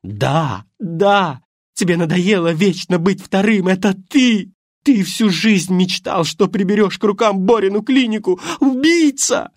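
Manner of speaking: high, loud, slow at times, peaking on Убийца; furious screaming. Acted. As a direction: scream every accusation at him. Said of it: "А она орала".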